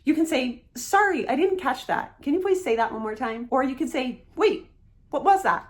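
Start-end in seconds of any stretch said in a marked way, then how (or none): 0.8-3.5 casual. Shown as a demonstration. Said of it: "In a casual setting with friends". 4.4-5.7 casual. Shown as a demonstration. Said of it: "casual setting with friends".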